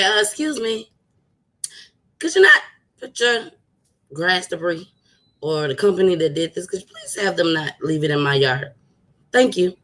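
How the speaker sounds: lightly voiced courteous request; polite neighbor voice. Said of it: "didn't walk over there and say".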